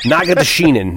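Nagadashinin sounded out carefully, syllable by syllable; name finally said. Real, not acted. Host recalling the leprechaun name, sounding it out. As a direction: land the name Nagadashinin at last. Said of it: "why can I say it?".

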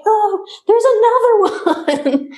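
high, slow dismay breaking into a laugh. Retold or imitated. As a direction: groan out the discovery laughing. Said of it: "We're like".

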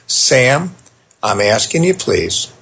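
calm, firm and non-controlling; father calmly asking his son to apologize, calm and firm; calm firm request. Retold or imitated. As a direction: ask gently but hold the line. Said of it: "This was calm in my tone".

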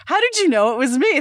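high, incredulous question; amazed disbelief. Retold or imitated. Actress tells interviewer her reaction, high and amazed. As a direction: sound genuinely baffled they knew. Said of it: "I'm just like".

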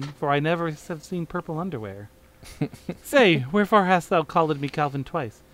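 lightly hammed Shakespearean reading; hammy stage actor. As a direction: declaim it like an old stage play. Reads parody play in voices.

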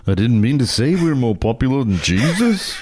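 Liverpudlian impression of a famous band member in a Liverpool accent. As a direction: say it like a famous singer with a Liverpool accent.

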